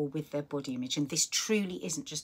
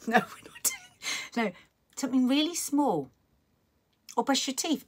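emphatic; 8 semitones higher, 5 dB louder than usual. Real, not acted. Emphatic advice after joke.

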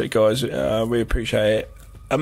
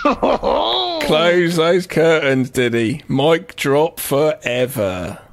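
dramatic drawl; much slower than usual. Pretend. Mock dramatic farewell.

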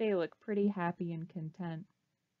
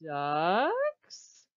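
duck puppet voice; 3 semitones lower, 6 dB louder than usual. Acted. Duck puppet calls again.

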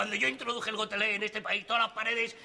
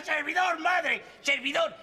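orgullo exaltado; 5 semitones higher, slower than usual. Acted. Presume ante su madre.

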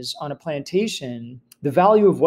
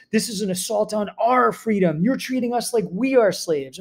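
raised-pitch mock outrage at losing property; indignant planter protest; 5 semitones higher than usual. Teacher mimicking outraged plantation owners, pitch raised and indignant. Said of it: "they talk about".

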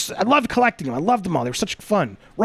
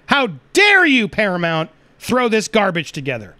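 indignant anger. Real, not acted. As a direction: demand it, shocked and furious. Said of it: "I am angry".

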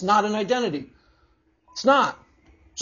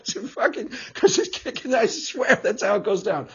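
usual speaking voice

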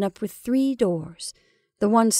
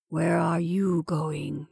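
slow, strange and breathless question; 3 semitones lower, 3 dB quieter, much slower than usual. A narrator's reading. Henry asks the rising woman where she is going, breathless. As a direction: ask it slowly, as if short of breath. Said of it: "in a strange, breathless voice".

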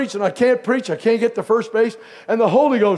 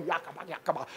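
mock tongues; 4 semitones lower, 16 dB quieter, faster than usual. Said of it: "talked in tongues".

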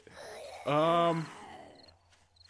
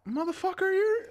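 shouting. Real, not acted. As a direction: blurt it out in a rage. Zombie attack.

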